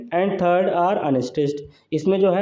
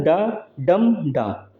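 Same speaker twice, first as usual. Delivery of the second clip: डा, डम, डा drawn out with pauses; rhythm pattern demo; much slower than usual. Shown as a demonstration. Teacher showing the pattern to students, drawn-out डा, डम, डा. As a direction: beat out डा, डम, डा slowly, syllable by syllable. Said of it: "इसका क्या रहता है पैटर्न".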